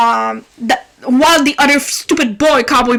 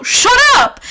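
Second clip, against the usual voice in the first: higher, louder, slow "shut up" yell; shouted shut up; 9 semitones higher, 3 dB louder than usual. Retold or imitated. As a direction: bark it out, fed up. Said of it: "I was like".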